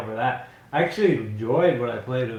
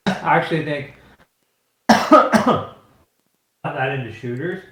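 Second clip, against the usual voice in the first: choking on granola bar; 5 dB louder than usual. Real, not acted. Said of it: "I'm choking on my granola bar here".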